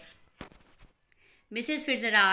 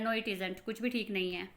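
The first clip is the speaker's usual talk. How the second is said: sulky; 6 dB quieter than usual. Acted.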